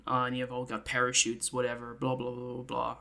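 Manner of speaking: weary sigh into offhand briefing; loud start, trailing into bored blahs; Merlin. Acted. Merlin briefs candidates on jumping from the plane, offhand. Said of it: "fully Merlin, just, like".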